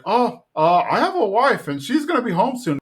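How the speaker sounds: high, hurried nervous excuse; flustered Hank. Retold or imitated. Hank dodging the flirting cop, high and flustered.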